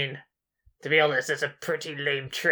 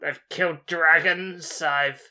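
lightly voiced boastful sorcerer; a hint of a grand wizard bragging. Player as sorcerer Gregomel bragging to the giant, lightly voiced.

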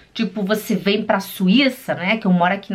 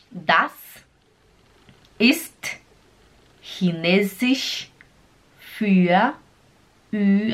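word by word with long pauses; palavra por palavra; much slower than usual. Shown as a demonstration. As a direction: drill each word separately. (cada palavra separada, com pausas)

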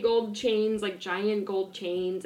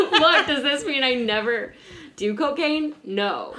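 laughing, higher-pitched retelling; amused, raised voice breaking into laughter; British accent dropped; 4 semitones higher, 5 dB louder than usual. Retold or imitated. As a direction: give up the accent and quote him through giggles. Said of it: "okay, I'm not doing British accent".

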